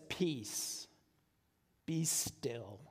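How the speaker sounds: a hint of Jesus hushing wind and waves; calm command. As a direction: still the storm with a quiet word. Jesus calms the storm.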